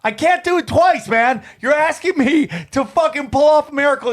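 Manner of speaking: high-pitched, acted-out refusal; exasperated protest. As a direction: protest in mock disbelief, pitch jumping up. Acted protest to his friend.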